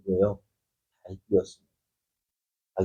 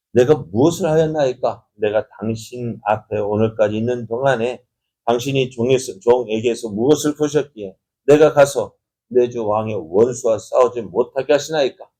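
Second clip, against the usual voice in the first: mildly raised, confident challenge; bold protest. Acted. David protesting to King Achish, boldly speaking up. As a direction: act out a bold, indignant-sounding plea to a king. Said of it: "이렇게 당당하게 큰 소리를 칩니다".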